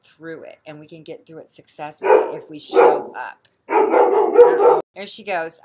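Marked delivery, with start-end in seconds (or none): 3.7-4.8 sudden high, loud alarm; a real startled exclamation. Real, not acted. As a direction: caught off guard by the animal. Animal acting up in barn.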